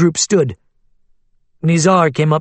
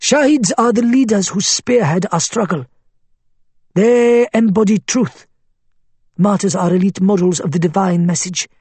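fervent cleric voice; 5 semitones higher than usual. Acted. Faiz exalting martyrs.

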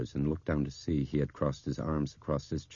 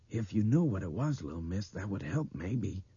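halting, tentative suggestion; hesitant; 4 semitones higher than usual. A narrator's reading. Man coaxing the little girl, hesitantly. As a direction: feel your way through it gently. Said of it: "Don Gaffney said hesitantly".

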